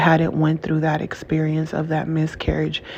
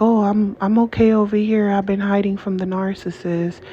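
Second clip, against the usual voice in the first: higher, mocking singsong of someone hiding; mock naive carefree voice; 4 semitones higher than usual. Mocking people who hide from a narcissist, in a higher carefree voice. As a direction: lightly mimic a person pretending all is fine. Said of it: "You're like".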